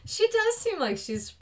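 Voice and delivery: breathy whispered aside. Real, not acted. Friend whispering a joke aside. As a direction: lean in and whisper it. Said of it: "whispered aside".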